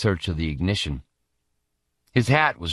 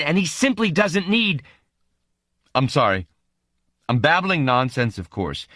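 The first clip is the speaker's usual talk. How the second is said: flustered babbling; 7 semitones higher than usual. Acted. Noonan babbling in panic.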